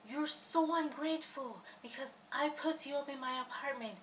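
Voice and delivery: a touch of the roommate's annoyed scolding; retold anger. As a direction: lightly imitate the offended roommate. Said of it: "she got so angry".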